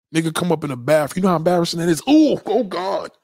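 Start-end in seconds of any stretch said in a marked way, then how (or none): 2.1-3.1 high, loud mock-disgusted ooh; disgusted gasp. Guy walks into the bathroom, mock-disgusted gasp. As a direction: recoil at the smell out loud.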